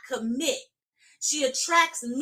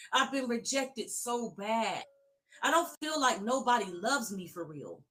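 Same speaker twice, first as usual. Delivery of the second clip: scared woman. Pretend. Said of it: "This is the woman you can't find".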